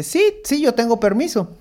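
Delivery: high, insistent vendor voice; mock street vendor. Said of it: "el cevichero le dice".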